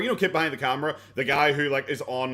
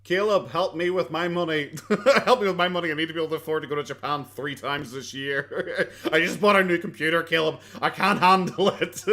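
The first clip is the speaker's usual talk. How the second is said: mock whiny caller. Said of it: "mocking a caller".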